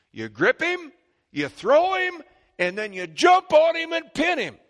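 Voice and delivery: high, loud, shouting each move; shouted wrestling moves. Acted. Preacher acting out a wrestling match, shouting. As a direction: bark the moves like a ringside crowd.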